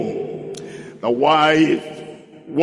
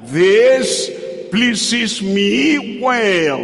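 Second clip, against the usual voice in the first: higher, slow, drawn-out self-satisfied reply; mock stubborn daughter; 4 semitones higher, much slower than usual. Pastor mimicking a headstrong daughter to the congregation, drawn-out and smug. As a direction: stretch each word like a spoiled child.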